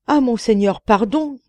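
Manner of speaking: high frightened plea; begging for mercy. A narrator's reading. Merchant begs the genie to spare him, frightened. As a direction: cry out for pardon.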